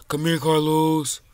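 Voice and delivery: slow whispered lure; sneaky whisper. Real, not acted. Kid gaming, whispering as he creeps up on a smaller player. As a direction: whisper like a predator stalking prey.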